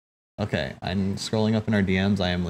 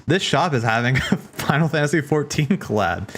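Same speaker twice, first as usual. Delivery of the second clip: raised, amused quote breaking into a laugh; quoting him, laughing; 5 semitones higher than usual. Retold or imitated. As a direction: read his message out with a giggle. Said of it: "And then he says".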